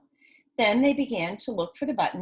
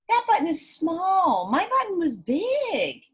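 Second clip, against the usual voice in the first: crying Toad; 7 semitones higher than usual. Acted. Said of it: "cried Toad".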